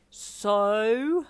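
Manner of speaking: loud, drawn-out rising prompt; pry eagerly for gossip; excited. A narrator's reading. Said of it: "May asked excitedly".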